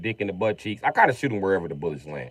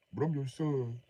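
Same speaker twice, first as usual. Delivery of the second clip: soft plead as the son; soft kid plea; lightly voiced kid; 4 semitones higher, 8 dB quieter than usual.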